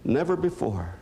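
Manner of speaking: the doctor tells Jerry kindly she's happy he needs her; doctor's voice. Retold or imitated. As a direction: gently tell him what he's never done. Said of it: "She said".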